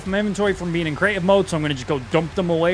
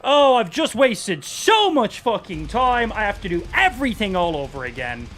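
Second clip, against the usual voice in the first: pissed off. Real, not acted. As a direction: start heated, let it sink into fed-up anger. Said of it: "I'm so fucking pissed".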